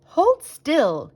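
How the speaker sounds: a firm dentist barking hold still; dentist's command. A narrator's reading. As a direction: order him to hold still. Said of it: "he said".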